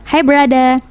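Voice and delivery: "brother" twisted into three syllables, "berada"; "brother" with no final R, Indonesian-style pun; jokey dropped R. Shown as a demonstration. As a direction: say "brother" as a playful "be-ra-da". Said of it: "ada plesetan berada".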